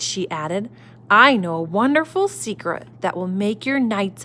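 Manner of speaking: gentle storybook reading voice; reading to children. A narrator's reading. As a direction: read it like a bedtime story. Reading picture book to children.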